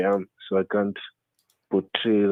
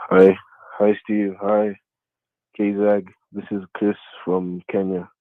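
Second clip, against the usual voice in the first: downcast, depressed-sounding, louder; 4 dB louder than usual. A caller greets the hosts on a phone-in, sounding kind of depressed. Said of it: "you sound kind of depressed".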